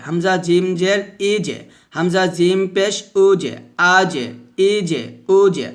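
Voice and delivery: spell, then give a thin echoed j; measured recitation with bounced endings; thin qalqalah drill. Shown as a demonstration. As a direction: bounce each j lightly in আজে, ইজে, উজে. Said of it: "তারপর জিমটা কি হবে".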